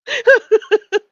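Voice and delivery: high, loud squealing laugh; can't stop laughing; helpless laugh. Real, not acted. Host reacting to clip, loud squealing laugh. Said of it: "be laughing this frickin' hard".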